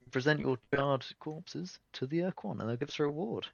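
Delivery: weight each word separately, as if capitalised; emphasis on every word. Acted. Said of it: "a lot of emphasis on every word".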